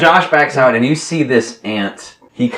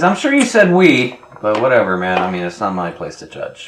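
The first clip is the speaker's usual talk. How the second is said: sarcastic ant. Acted. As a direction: brush him off with mock tolerance. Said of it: "He says".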